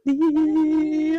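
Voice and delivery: loud high cheer. Real, not acted. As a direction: celebrate out loud. Cheering about Italy.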